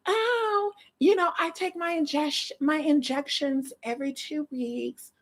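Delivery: mock dainty girly voice; put-on sweet feminine voice; soft-voiced girl. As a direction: imitate an affected soft-spoken vlogger. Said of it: "talking like that".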